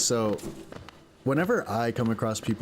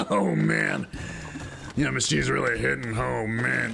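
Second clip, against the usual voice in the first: put-on goofy, slightly drunk man's voice; kinda drunk diner; 2 semitones higher than usual. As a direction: imitate a tipsy cartoon character. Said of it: "he also sounded kinda drunk".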